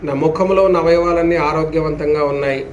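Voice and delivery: measured affirmations with long falling endings; steady, unhurried relaxation guidance; guided yoga nidra. Acted. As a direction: intone it for listeners to follow, drawing out the last word.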